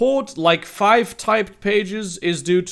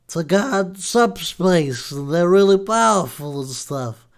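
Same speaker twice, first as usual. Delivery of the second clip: God voice. Acted. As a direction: play God as a lazy New Jersey guy. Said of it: "I'm gonna do God now".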